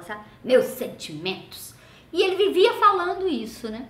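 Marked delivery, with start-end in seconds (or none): 0.4-1.7 slow voiced "Meus sentimentos", a touch of mockery; mock condolences. Dad repeating his joke about the friend dying, slow. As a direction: say "Meus sentimentos" slowly with a hint of irony. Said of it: "Ele falava".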